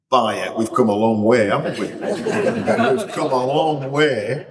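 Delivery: laughing, drawn-out we've come a long way. Retold or imitated. Four Boltonians musing in a plush room, laughing. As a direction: chuckle it out in amazement. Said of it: "we're thinking".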